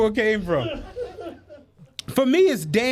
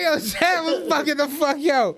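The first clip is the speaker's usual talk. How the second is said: laughing hard; 4 semitones higher than usual. Real, not acted. Laughing while retelling.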